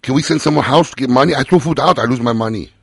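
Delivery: lightly put-on Asian American accent, broken English. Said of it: "Asian American accent".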